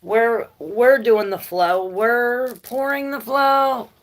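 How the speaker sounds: a hint of a proud body bragging, drawn out; mock body bragging; body's voice. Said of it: "perhaps this is this saying, like".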